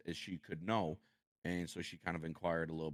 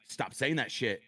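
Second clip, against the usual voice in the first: much higher and louder, exasperated yelling at his wife; angry outburst; 9 semitones higher, 5 dB louder than usual. Retold or imitated. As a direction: blow up at her, fed up with her saying good. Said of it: "I'm like".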